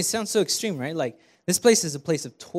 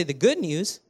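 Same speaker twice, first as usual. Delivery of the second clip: congregation call; 5 dB louder than usual. Shown as a demonstration. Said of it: "turn to your neighbor and say".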